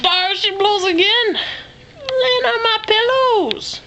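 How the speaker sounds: high, drawn-out sailor call; mock whaler's cry. Owner spots the dog on her pillows, mock sailor call. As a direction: sing it out like spotting a whale.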